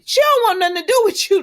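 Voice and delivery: high, loud retold put-down; retold angry outburst. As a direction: throw the line back at him in mock anger. Retold angry confrontation, Nicholas.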